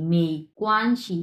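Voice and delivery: "মে কোয়ানশি" slowly with a light "শি"; released final syllable. Shown as a demonstration. Teacher shows the neutral ending, slow and careful. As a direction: drop "শি" as soon as touched. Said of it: "এই শিটা কিন্তু আমি ধরেই ছেড়ে দিচ্ছি".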